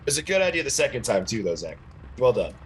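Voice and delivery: unintentionally patronizing praise; condescending. Real, not acted. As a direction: praise that lands as condescending, dropping low at the end. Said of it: "That sounded so condescending".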